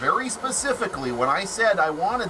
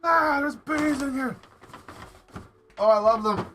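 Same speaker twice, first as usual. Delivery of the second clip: excited squeal; 11 semitones higher than usual. Real, not acted. Excited over knitted bees.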